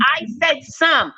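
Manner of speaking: "some" stretched slowly and pressed; stress on some. Real, not acted. Repeating her point to the man, slow stress on "some". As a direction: spell it out slow, hitting "said" and "some". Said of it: "That was my statement".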